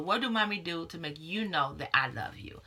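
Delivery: hushed, tender mother's question; gentle whisper. Retold or imitated. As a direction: whisper it gently, like leaning in to your kid. Mother gently asking her kids.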